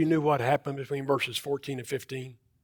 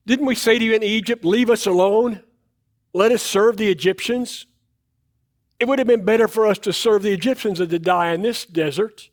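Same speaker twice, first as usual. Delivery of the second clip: raised, whiny people grumbling at Moses; complaining crowd; 4 semitones higher, 3 dB louder than usual. Acted. Israelites complaining to Moses, raised and fast. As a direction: grumble back at Moses, pitched up.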